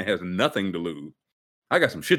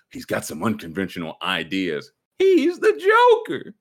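dramatic cop voice. Retold or imitated. Quoting Gotham cop.

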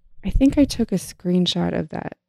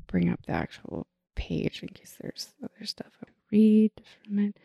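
very soft, half-whispered muttering; absent muttering; 3 semitones higher, 11 dB quieter than usual. Real, not acted. Reader looking up the page to read from, muttering to herself. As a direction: mumble it to yourself, barely voiced. Talks to herself while searching.

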